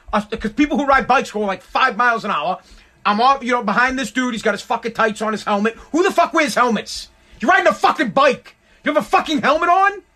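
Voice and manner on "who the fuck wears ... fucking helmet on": raised, incredulous ranting; mock-outraged rant about helmets; exasperated rant. Real, not acted. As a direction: vent at the cyclist, pitch up.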